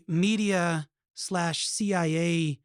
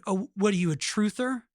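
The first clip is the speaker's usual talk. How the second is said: mocking, incredulous questioning; cynical, belittling; 2 semitones higher than usual. Media belittling people who asked questions, cynical. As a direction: imitate a sneering challenge, pushing harder as it goes. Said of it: "said it in this really cynical, belittling way".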